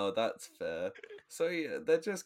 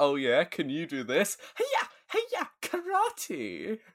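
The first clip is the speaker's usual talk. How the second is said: loud, swooping, sing-song show-off tone; 8 semitones higher, 6 dB louder than usual. Retelling how Tommy shows off his karate: imitating Tommy showing off. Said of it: "he's like".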